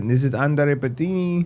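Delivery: put-on Italian accent. Quoting how a video creator says his name: Italian accent imitating Andre. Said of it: "I was giving my best Italian".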